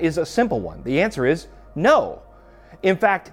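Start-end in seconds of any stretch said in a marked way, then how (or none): 0.8-2.2 no said firmly with a falling close; emphatic no. Real, not acted. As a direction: land the word no as final. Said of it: "it's an emphatic no".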